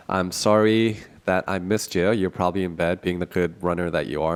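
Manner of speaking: stuffy nasal voice, blocked nose. Real, not acted. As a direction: talk through a stuffed-up nose. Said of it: "sorry for my nasally voice".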